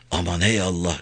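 soft whispered plea to God; quiet prayer. A narrator's reading. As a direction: pray under the breath. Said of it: "diye dua etti".

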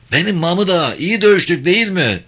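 high-pitched, singing-out reply; comrade's voice. A narrator's reading. Fellow soldier answering his comrade after battle, high-voiced. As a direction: answer a friend from along the trench.

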